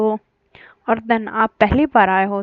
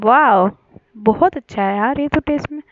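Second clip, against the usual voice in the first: delighted; 4 dB louder than usual. Acted. Tasting the special coffee.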